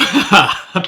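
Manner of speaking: short laugh; a brief burst of laughter. Pretend. The host's own laugh.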